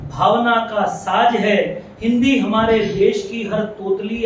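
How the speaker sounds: measured, ringing poetry recital; poem recitation. Acted. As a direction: declaim each line in measured phrases, pausing between them.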